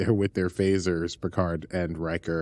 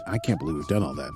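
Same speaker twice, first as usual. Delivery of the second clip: squeaky aside; faster than usual. Pretend.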